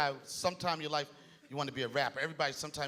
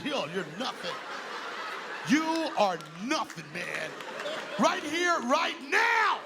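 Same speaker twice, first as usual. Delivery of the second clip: higher mock shouting white guy, hammed-up; angry white guy; 5 semitones higher, slower than usual. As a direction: rant like a mad white guy at a bar. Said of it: "when white guys get mad".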